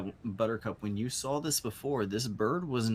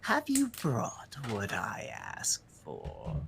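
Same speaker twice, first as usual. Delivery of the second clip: shrieking bird; slower than usual. Acted. Bird demands its gift, shrieking cawing voice. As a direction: screech the opening, then draw it out. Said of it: "shrieking cawing sound".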